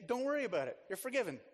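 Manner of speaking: preacher playing the smug bystander who forgives; breezy pardon. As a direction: wave it off grandly. Magnanimous bystander in illustration.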